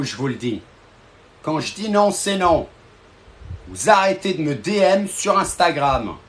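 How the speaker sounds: a lightly stern boss laying down rules; stern boss telling off. Acted. A boss scolding his followers, in a firm mock-stern voice.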